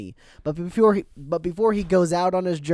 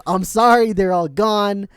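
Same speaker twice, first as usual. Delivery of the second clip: mock apologetic professor; 4 semitones higher, 6 dB louder, slower than usual. Voicing Professor Oak turning Ash away.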